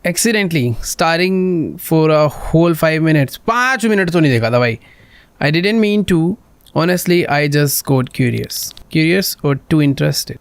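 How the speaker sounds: slow, drawn-out read of both sides; lightly acted accusation and excuse; acted argument. Girl accuses the player of spying, slow acted read. Reads a game argument aloud.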